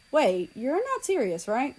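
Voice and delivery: anxious call. A narrator's reading. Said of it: "called South Korea".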